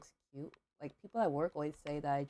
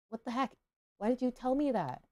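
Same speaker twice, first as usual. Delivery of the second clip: high, louder indignant protest; exasperated retort; 8 semitones higher, 5 dB louder than usual. Retold or imitated. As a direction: re-enact an exasperated comeback at customs. Acted exasperated reply to customs.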